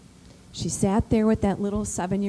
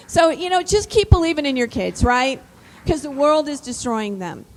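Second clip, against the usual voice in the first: rousing; 4 semitones higher, 6 dB louder than usual. Real, not acted. Urging the audience.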